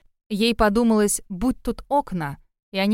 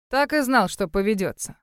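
triumphant smirk. Acted. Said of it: "Победно усмехнулся Алекс".

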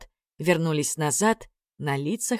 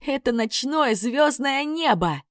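excited shout; 8 semitones higher, slower than usual. Acted. Excited discovery of the sky.

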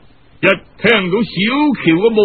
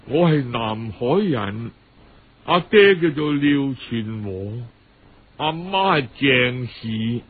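put-on pitiful young girl; 8 semitones lower, 4 dB quieter than usual. Pitiful girl answers uncle's questions.

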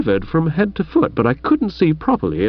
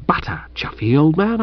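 hushed plea; 3 semitones higher than usual. Acted. Hushed plea in the dark bushes.

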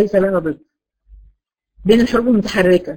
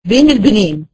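slow teaching; 3 dB louder, slower than usual. Shown as a demonstration. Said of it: "لا يجري ... ولا ينحبس".

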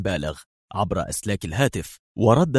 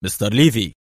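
exclaimed; 3 dB louder than usual. Acted. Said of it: "وهتف".

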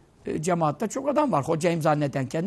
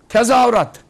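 louder, higher cheering call; 5 semitones higher, 8 dB louder than usual. Retold or imitated. Fans cheering at the football match, loud call.

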